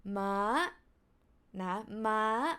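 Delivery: Ma held high; high tone demo. Shown as a demonstration. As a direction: keep Ma up high. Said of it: "high tone means horse".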